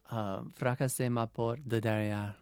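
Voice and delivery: French phrase said natively; French pronunciation. Shown as a demonstration. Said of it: "just say it in French first".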